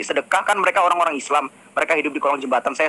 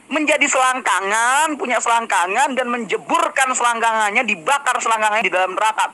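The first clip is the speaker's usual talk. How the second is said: scornful rhetorical climax; 5 semitones higher than usual. Real, not acted. Scornful rhetorical climax, raised pitch.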